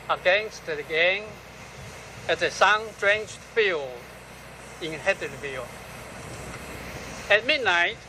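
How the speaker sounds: solemn, unhurried poetry recital; poem reading. Acted. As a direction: read the poem phrase by phrase, letting each line hang. Reads own poem aloud.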